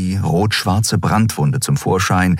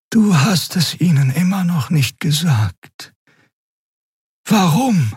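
high, otherworldly questioning voice; high creature voice asking why; Xea the Draxyl; 12 semitones higher than usual. Acted. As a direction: press him gently for an answer.

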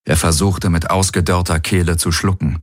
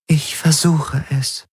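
raised, otherworldly alien voice; eerie alien Helix; 7 semitones higher, slower than usual. Acted. The alien Helix warns Garland's crew, cool and otherworldly. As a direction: speak like a detached alien intelligence.

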